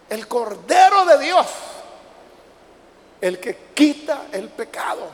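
slow, loud proclamation; proclaiming. Acted. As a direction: proclaim it to the whole church. Preacher proclaims title.

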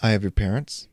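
calm, gloating supervillain monologue; quietly menacing villain; villain speech. Acted. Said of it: "you are giving your greatest villain speech".

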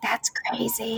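soft, incredulous reaction; quiet disbelief. Retold or imitated. Wife reacting to husband's accent matching, softly incredulous. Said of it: "And I'm like".

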